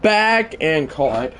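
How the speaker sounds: live commentator's excited stretch; play-by-play call. Real, not acted. Calling the play as it happens.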